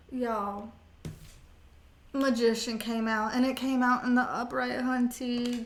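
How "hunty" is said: normal talking voice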